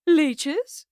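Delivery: shrill high shriek of horror; screech. A narrator's reading. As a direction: shriek the word in disgust. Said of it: "Miss Davenport screeched".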